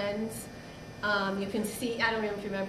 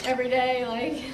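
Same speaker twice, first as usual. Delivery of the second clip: laughing; 3 semitones higher than usual. Real, not acted. Laughing, emotional thanks.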